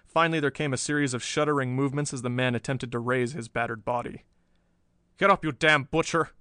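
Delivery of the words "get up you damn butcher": louder, forceful command; barked order. A narrator's reading. Jimmy orders the captured professor to his feet, commanding. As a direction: order him up, loud and hard. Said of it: "ordered Jimmy".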